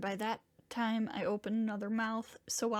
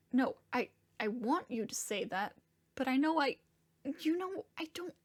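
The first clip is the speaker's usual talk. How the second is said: halting, upset, words breaking off; distraught protest. Acted. Diego protesting to the one comforting him, distraught. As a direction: struggle to get the words out, upset.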